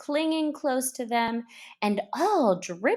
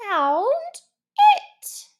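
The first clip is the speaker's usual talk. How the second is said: a touch of cross; 7 dB louder than usual. Acted. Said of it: "rather crossly".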